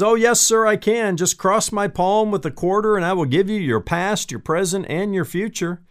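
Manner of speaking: high, assured fortune-teller pitch; lightly voiced, self-assured fortune teller; great confidence. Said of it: "She said it with great confidence".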